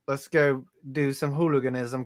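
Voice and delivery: badly faked British accent, casual; lightly put-on British hooligan; hint of a fake English accent; mock British accent. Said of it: "done a British accent".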